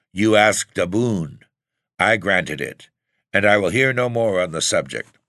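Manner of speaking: a hint of a booming king; booming warrior king. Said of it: "roared the king".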